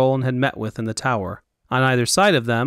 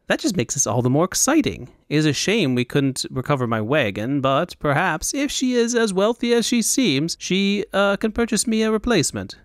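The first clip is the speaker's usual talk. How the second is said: eager, lilting fop, climbing much higher; excited fop; 6 semitones higher than usual. Acted. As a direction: muse hopefully, pitch rising as the scheme grows.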